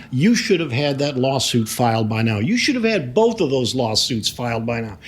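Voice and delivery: imitating an irate client's tirade, pitch climbing; John screaming and yelling. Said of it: "he started screaming and yelling".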